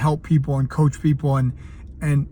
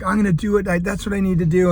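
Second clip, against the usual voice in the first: mildly excited; 4 semitones higher, faster than usual. Retold or imitated. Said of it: "he got all excited".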